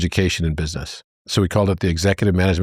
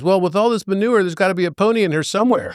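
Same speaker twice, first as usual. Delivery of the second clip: put-on high, fast, eager child voice; excited little boy; 11 semitones higher, faster than usual. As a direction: bubble it out like a hopeful kid.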